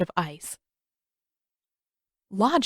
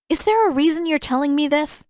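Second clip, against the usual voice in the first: sharp, higher demand; 8 semitones higher, 4 dB louder than usual. A narrator's reading. Katara demanding an answer from Pakku, sharp and raised. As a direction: press him for an answer. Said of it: "she demanded".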